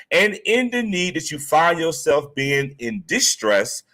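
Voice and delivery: formal disclaimer read; character voice. Pretend. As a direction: read the legal notice like an announcer. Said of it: "I'm gonna get into my character voice".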